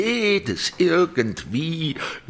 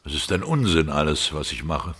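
despairing; 7 semitones lower, faster than usual. Acted. Artist in despair.

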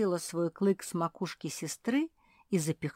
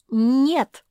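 much louder, higher cry of no; exclaiming in chorus; 8 semitones higher, 13 dB louder than usual. A narrator's reading. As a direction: everyone protests at once. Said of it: "хором воскликнули все".

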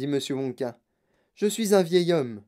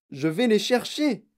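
higher, drawn-out exclamation; cried out; 5 semitones higher than usual. A narrator's reading. Wonka announcing the rescue to Charlie, crying out. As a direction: announce it in a slow, moderate cry. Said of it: "cria monsieur Wonka".

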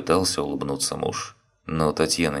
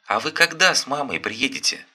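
put-on a small kid calling excitedly; joyful child; 10 semitones higher than usual. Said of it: "детские голоса".

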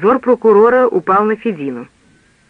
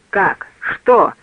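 prosecutor yelling; 3 semitones higher than usual. A narrator's reading. Prosecutor hears the prisoner escaped, yelling in disbelief. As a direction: bark the questions in disbelief. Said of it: "заорал прокурор".

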